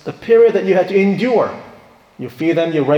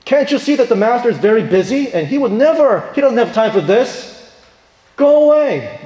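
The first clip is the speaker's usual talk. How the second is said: raised, high-pitched scolding; angry yelling; 6 semitones higher, 4 dB louder than usual. Acted. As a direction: yell at them to shoo them off. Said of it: "They're yelling at the parents".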